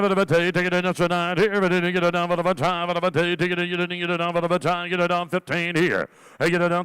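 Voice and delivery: rapid rhythmic auction chant; auctioneer. Acted. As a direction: rattle off the bids in a steady chant. Auctioneer calling bids.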